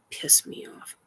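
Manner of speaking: hissed under the breath; whispered threat. Real, not acted. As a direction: breathe it as a warning. Threatening unseen entities.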